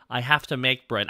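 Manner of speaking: little guy voice. Shown as a demonstration. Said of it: "talking higher up here when I'm a little guy".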